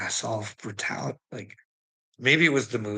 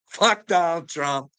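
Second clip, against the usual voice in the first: higher, louder, slower curse; angrier curse; 7 semitones higher, 4 dB louder, slower than usual. Real, not acted. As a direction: spit it out with building contempt. Repeated curse, second louder.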